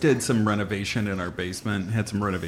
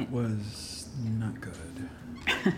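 disgusted; 6 dB quieter, much slower than usual. Real, not acted. Disgusted reaction to bad food.

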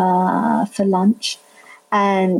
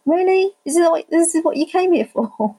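incredulous; 8 semitones higher than usual. Retold or imitated. Inner reaction to rude relatives.

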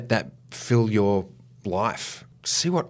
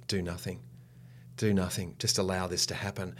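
softer inner echo of the teacher; remembered voice; 8 dB quieter than usual. Retold or imitated. Actor hearing teacher's advice in his head, quietly. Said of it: "I heard her say".

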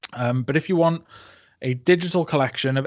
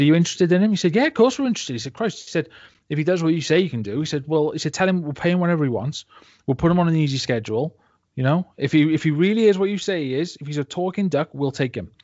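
eager circus boss; 4 semitones higher than usual. Retold or imitated. Excited circus ringmaster voiced in joke.

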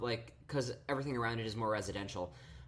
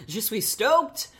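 mock French; 9 semitones higher, 8 dB louder, slower than usual. Joking franglais.

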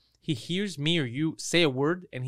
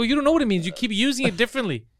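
retold angry rant; 6 semitones higher, faster than usual. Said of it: "And I started yelling".

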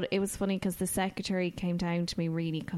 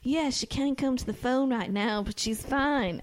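a touch higher, lightly voiced boyfriend brushing callers off; controlling boyfriend; 5 semitones higher than usual. Husband fielding worried calls, lightly voiced controlling boyfriend. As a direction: play the gatekeeping partner, only lightly. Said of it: "he really sounded like a singer".

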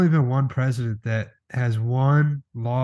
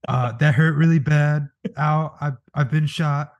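mock dying; 4 semitones higher, slower than usual. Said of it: "everyone fucking heard that".

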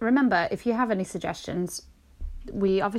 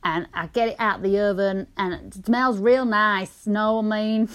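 put-on American accent. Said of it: "I might have this accent".

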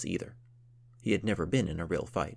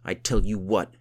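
gruff count voice; 5 dB louder than usual. Acted.

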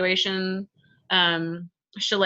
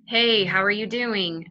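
slow, tongue pulled back; same pitch, darker slower take; 3 semitones higher, slower than usual. Shown as a demonstration. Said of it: "I sound like a completely different person".

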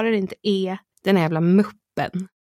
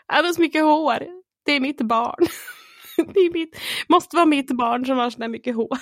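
proud excitement; 6 semitones higher than usual. Retold or imitated. Proud new mother, retold.

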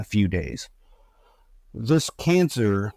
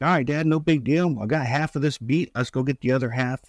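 a brisk, higher, carefree son's voice; upbeat son; 4 semitones higher than usual. Retold or imitated. Son telling his dad he is ready for radiation, higher and breezy. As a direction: toss it off like nothing, cheerful and ready.

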